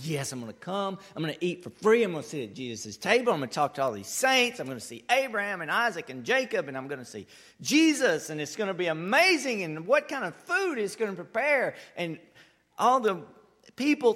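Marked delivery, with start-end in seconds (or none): 0.0-11.8 a hint of an eager churchgoer, louder; eager believer. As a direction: voice the excited listener in the pews. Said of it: "And you're like".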